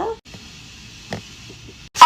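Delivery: long, slow stunned drawl. Real, not acted. Hearing the coworker's confession, stretched-out stunned drawl. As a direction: stretch it out in disbelief.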